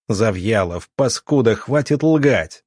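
slow, angry accusation spat out; furious. Acted. Doctor accusing Zavyalov of lying, furious. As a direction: call the liar out, furious and slow. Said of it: "горели от ярости".

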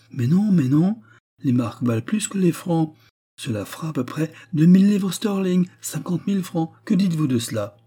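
bubbling over with good news; excited young Anna. A narrator's reading. Anna correcting her sister-in-law, excited and high.

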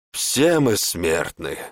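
slow, calm reply. Acted. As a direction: servant calmly facing the warlock. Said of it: "спокойно ответил Арам".

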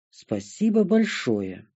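slow, dry sarcastic thanks. A narrator's reading. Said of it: "не без сарказма в голосе ответила".

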